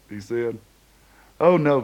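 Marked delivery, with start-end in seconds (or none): 1.4-1.8 quick, louder burst of denial; blurted. A narrator's reading. Denying to his friend he still sulks, blurted. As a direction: blurt it out before thinking. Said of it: "Kemp blurted".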